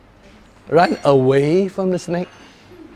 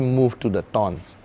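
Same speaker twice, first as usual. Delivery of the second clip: angel's voice; 5 semitones lower, 5 dB quieter than usual. Retold or imitated. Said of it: "the angel said".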